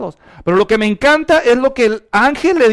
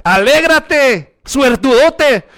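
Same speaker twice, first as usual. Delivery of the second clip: slow, drawn-out and a little higher, like an odd intruder; stranger's greeting; 5 semitones higher, 4 dB louder, much slower than usual. Pretend. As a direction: stretch each word like an uninvited stranger. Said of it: "un extraño que te dice".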